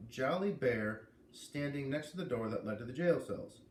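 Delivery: lively first-person read-aloud; story narration. A narrator's reading. A reader opening chapter one for listeners, in lively narration. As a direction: read the chapter to your audience, brightly.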